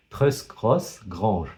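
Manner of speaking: slow, careful try at an English accent on "Trust Cross Grange"; English accent attempt. Shown as a demonstration. Booktuber admits his English accent is weak, slow English try. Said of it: "mon accent anglais, elle laisse à désirer".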